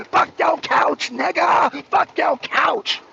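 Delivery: slow, drawn-out shouted taunt; lightly hammed-up insolent guest; mock Zelensky yell. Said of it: "he called y'all niggas too".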